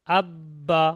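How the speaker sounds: আব্বা with the ব sounded twice; doubled b. Shown as a demonstration. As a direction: hold the b in আব্বা, closing then releasing it. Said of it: "বাটা দুবার উচ্চারণ হয়েছে".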